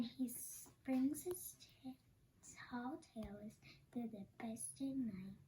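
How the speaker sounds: bedtime whisper. A narrator's reading. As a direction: breathe it out as the child drifts off. Bedtime story closing hush.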